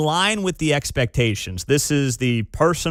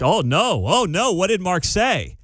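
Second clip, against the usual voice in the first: mock dismay; 5 semitones higher than usual. Retells own dismayed reaction to headline.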